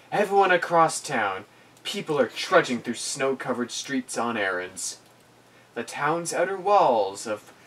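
steady storytelling voice; game master narration. Acted. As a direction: set the scene like a storyteller. DM sets the scene.

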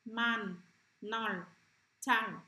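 isolated words, firmly projected for the class; teacher's word-by-word model reading; read-after-me model. Shown as a demonstration. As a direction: give each word alone, then pause. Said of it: "Bạn đọc lại theo cô nhé".

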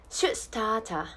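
Australian "start a", no R, crisp T; Australian pronunciation. Shown as a demonstration. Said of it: "オーストラリア英語の発音ポイント".

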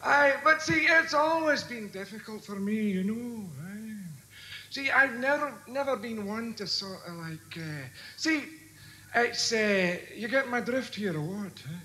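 put-on broad Glasgow accent, rambling; thick Scottish brogue. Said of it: "piss off back to Scotland".

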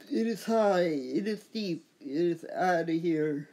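a hint of a sportscaster belting it out; Duane Kuiper home run call. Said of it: "like Duane Kuiper would say".

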